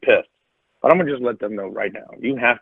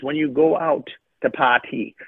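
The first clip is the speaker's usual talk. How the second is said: lightly imitated West Indian father; a touch of West Indian lilt; West Indian accent. Father advising his son about parties, light West Indian accent. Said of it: "in his West Indian accent".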